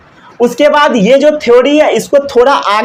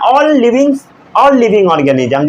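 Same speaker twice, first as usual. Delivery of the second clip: slow dictation; 2 semitones higher, much slower than usual. Shown as a demonstration. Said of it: "teacher dictating slowly".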